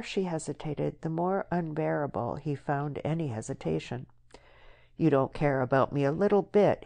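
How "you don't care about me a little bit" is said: cried. Acted. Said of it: "he cried at last".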